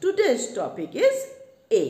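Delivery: drawn-out, slow topic title; slow announcement. Shown as a demonstration. Teacher to students, slow title announcement. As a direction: stretch each word to announce the topic. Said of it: "teacher announces topic slowly".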